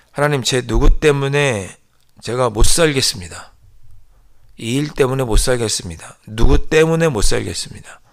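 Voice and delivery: mock complaining prayer. Preacher acts a believer complaining to God, loud lament. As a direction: cry out a grumbling prayer to God.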